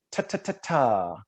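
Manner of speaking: crisp "ta, ta, ta, ta" tapped at the teeth; consonant drill. Shown as a demonstration. Coach drilling tongue-tip sounds, crisp. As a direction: tick each "ta" off the teeth. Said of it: "inward a little bit with the teeth".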